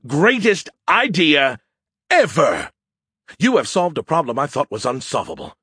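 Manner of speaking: theatrical awe, punching the big words; awestruck amazement. Acted. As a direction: gush in stunned, over-the-top admiration. Character astounded by Joe's idea.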